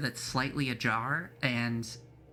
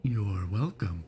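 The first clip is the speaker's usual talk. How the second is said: slow, lightly voiced innkeeper; polite old innkeeper, unhurried; 3 semitones lower, slower than usual. DM voicing the innkeeper.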